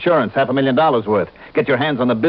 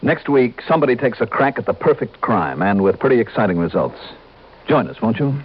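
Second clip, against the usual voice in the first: bright announcer-style preview; show preview read; 3 semitones higher than usual. Acted. Star inviting listeners to next week's story, announcer read.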